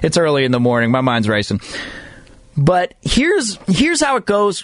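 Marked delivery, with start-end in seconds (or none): 2.6-4.6 slow, voice cracking and breaking mid-phrase. Speaker starting to explain the MLB standings early in the morning, voice cracking. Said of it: "my voice just cracked".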